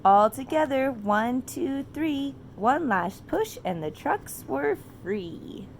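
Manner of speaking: lilting, slow picture-book reading; reading to children. A narrator's reading. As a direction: read it like a bedtime story to a toddler.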